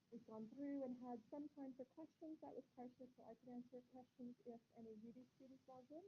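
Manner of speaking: muffled, mic too far away. Real, not acted. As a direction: sound as if covered and distant. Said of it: "Very muffled?".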